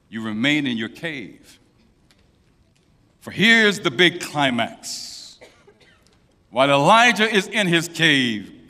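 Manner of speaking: ordinary talk, nothing marked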